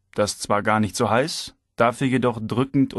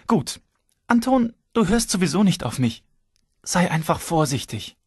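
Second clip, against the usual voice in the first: wife's voice; 7 semitones higher than usual. A narrator's reading. Wife gives up, warns.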